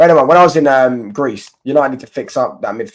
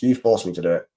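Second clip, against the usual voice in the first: lower, mock-menacing villain voice; a hammed-up baddie, lower and grave; 5 semitones lower than usual. Mock threat at chat.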